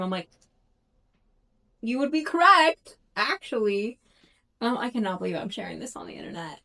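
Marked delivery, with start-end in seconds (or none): 1.8-4.0 imagined reply, pitched up and loud; mock-earnest, louder agreement with a book character; emphatic agreement. Voices their own reply to character.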